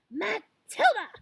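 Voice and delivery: loud, high, drawn-out angry call; barked. A narrator's reading. Furious headmistress calls Matilda out in class, barking. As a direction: bellow the name as a fierce summons. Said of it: "she barked".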